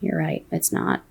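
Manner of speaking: very soft, hushed concession; meek surrender. Retold or imitated. Answering the wife's angry dismissal, meek surrender. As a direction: give in almost under the breath.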